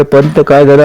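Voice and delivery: narrated worried urgency; alarmed. A narrator's reading. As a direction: ask it in rising alarm. Alarmed king rushes to dying elder.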